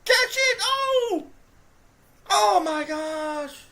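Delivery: very high, loud yell then slow groan; pained laughing scream; laughing shout of dismay. Real, not acted. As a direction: cry out at the drop. Dropped pass.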